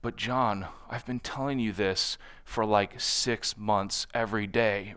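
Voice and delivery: quiet exasperation. Retold or imitated. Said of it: "the British will be like".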